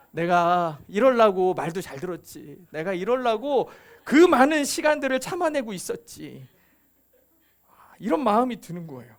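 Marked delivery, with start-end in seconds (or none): 0.1-6.5 retold inner gloating, savouring each word; mildly smug, pleased with oneself; smug self-congratulation. Child privately gloating while the sibling gets scolded, mildly smug. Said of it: "속으로 굉장히 뿌듯한 거 있죠".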